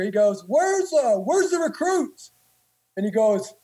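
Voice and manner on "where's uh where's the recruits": higher, slow demanding question; a stern senior asking slowly. Retold or imitated. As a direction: senior asking where the recruits are. Senior questions the drill instructor.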